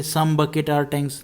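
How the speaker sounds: slow, word by word, in full voice; slow voiced reading. Real, not acted. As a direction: read it out slowly and clearly, aloud. Teacher rereads the same statement.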